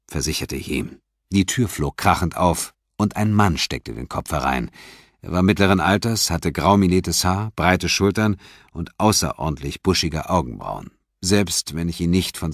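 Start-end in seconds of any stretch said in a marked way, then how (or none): none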